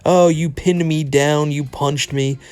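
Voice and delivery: hammed-up whimpering complaint; mock crying complaint. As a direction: imitate him whining about being hurt. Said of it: "who was crying about".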